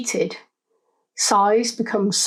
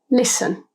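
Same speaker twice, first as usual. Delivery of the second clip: "Listen" with the weight on "Lis"; "Listen", first syllable strong, second light; stress on first syllable; 3 semitones higher than usual. Shown as a demonstration. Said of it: "emphasis is on the first syllable".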